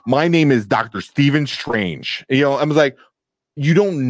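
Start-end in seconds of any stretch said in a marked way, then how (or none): 0.1-2.2 slow, careful mock American accent from a British actor; imitated British actor's American accent. Mocking Cumberbatch's Doctor Strange line in a stiff American accent. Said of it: "He goes".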